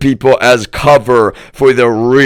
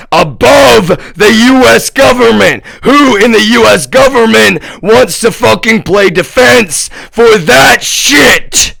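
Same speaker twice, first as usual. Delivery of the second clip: very high, incredulous angry yell; outraged yelling; 11 semitones higher, 4 dB louder than usual. Real, not acted. Challenging anyone who would defend them, outraged high yell. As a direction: yell it in outrage, drawing out the ending.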